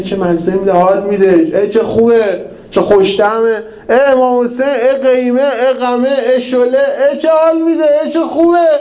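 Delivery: hammed-up glutton savouring every bite, climbing in pitch; gushing mock delight.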